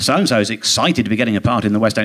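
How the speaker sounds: lightly mock the breathless showbiz gossip; a hint of a gushing gossip writer; mock gossip columnist. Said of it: "it was all this sort of".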